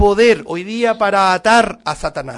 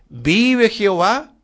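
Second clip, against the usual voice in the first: slow, solemn prophetic call, a touch louder; prophet's proclamation; 3 semitones higher, 5 dB louder, slower than usual. Acted. Preacher quoting the prophets of old, slow solemn proclamation. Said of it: "cómo comenzaban sus profecías".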